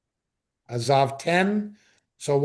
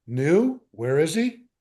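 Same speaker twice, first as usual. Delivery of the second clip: gentle father. Shown as a demonstration. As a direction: ask it like a kindly father, easy. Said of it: "a more gentle father".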